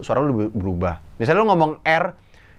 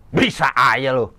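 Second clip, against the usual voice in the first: impression of Opi Kumis; slower than usual. Shown as a demonstration. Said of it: "kalau gue impersonate".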